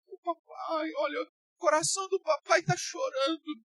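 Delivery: high, whiny mock-sentimental daddy; mock whiny father. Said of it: "Você vai". (pai choramingando, voz aguda de deboche)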